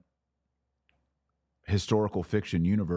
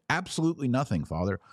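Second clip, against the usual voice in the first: naive convert; 6 semitones higher than usual. Retold or imitated.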